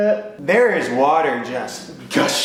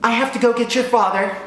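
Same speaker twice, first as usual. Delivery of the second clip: calm mom; 6 semitones higher than usual. Retold or imitated. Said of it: "she's like".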